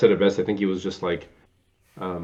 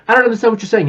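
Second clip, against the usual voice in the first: baffled Nathan Lane; 12 semitones higher, 6 dB louder, much faster than usual. Retold or imitated. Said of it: "and he's like".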